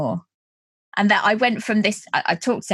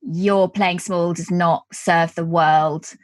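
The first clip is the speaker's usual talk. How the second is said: reciting a poem; 3 semitones lower than usual. Shown as a demonstration. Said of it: "the sentence goes".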